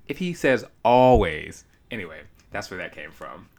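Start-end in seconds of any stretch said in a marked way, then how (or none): 0.1-1.6 incredulous inner voice. Retold or imitated. Eavesdropper asking herself why he keeps arguing, incredulous. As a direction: wonder aloud in disbelief. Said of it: "I just kept saying".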